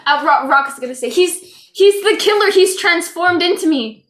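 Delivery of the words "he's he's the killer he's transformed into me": raised, louder pitch; urgent accusation. Acted. Impostor blames the handcuffed man before guards, urgent accusation. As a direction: accuse him in alarm.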